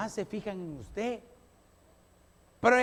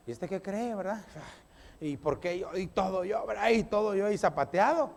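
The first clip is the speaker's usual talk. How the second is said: grumbling under breath; 2 semitones lower, 3 dB quieter than usual. Pretend. Grumbling while doing chore.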